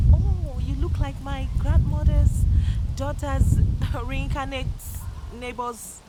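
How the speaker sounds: high, loud, slow rambling chat-up; hesitant suitor. Acted. Imitating guys trying to approach girls, hammed-up rambling suitor. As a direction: drag out a clumsy mock pick-up line. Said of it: "some guys trying to approach some girls".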